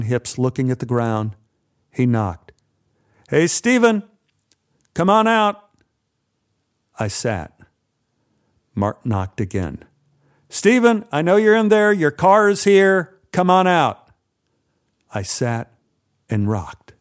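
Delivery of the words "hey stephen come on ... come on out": raised voice calling through a door; menacing call through the door. Acted. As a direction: call him out, barely calm.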